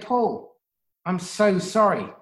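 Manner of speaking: low, gentle and sincere; nurturing parent. Acted. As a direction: soothe the teen like a caring parent. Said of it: "vulnerable, nurturing, assertive, and you can say".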